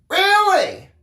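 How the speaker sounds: high, loud shocked question; stammered disbelief. A narrator's reading. Daniel stammers in shock at hearing of his accident. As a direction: gasp it out, stunned. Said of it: "I stammered".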